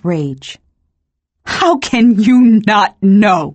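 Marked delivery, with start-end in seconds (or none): 1.4-3.4 loud, raging shriek at the god. A narrator's reading. Yeine shrieking at Nahadoth in rage, loud. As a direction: hurl the question in white-hot rage. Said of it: "I shrieked at Nahadoth".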